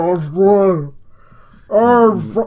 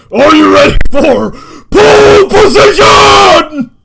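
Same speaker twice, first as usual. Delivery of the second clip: high, loud screamed war cry. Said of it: "and he screams".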